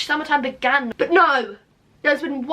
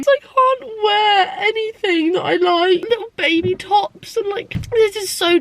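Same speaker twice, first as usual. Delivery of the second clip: real crying; 6 semitones higher than usual. Real, not acted. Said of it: "It's so dumb that you're crying over this".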